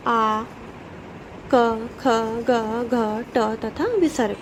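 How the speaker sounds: each letter sounded apart, carefully; letters said clearly. Shown as a demonstration. Teacher to children, reciting throat letters one by one, clear and careful. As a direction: spell out every sound for the class to repeat. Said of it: "मेरे साथ इसका उच्चारण करते जाइए".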